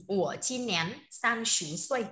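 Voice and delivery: slow, measured model sentence; slow teacher model. Shown as a demonstration. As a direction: stretch each syllable so learners can follow. (đọc mẫu thật chậm, kéo dài từng tiếng)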